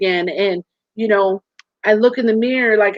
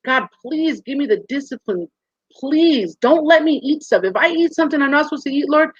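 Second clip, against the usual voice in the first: higher, slowed, earnest plea to God; a retold prayer, pitched up and pleading; 4 semitones higher than usual. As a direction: beg God for help, voice lifted.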